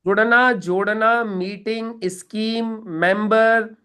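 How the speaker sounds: each word "जुड़ना", "जोड़ना" said slowly and set apart; banned words listed. Shown as a demonstration. Coach lists words the trainee must never say, slowly. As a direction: tick off "जुड़ना, जोड़ना, meeting" one by one, with weight. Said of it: "ऐसी कोई बात नहीं करनी है".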